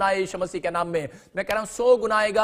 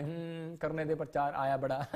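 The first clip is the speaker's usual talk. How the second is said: low, much softer grumble of a resentful woman; sulky churchgoer attitude; 5 semitones lower, 9 dB quieter than usual. Retold or imitated. Woman in church dismissing the pastor, sulky grumble. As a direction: mutter it under your breath, dismissive. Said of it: "अंदर मुंह का attitude".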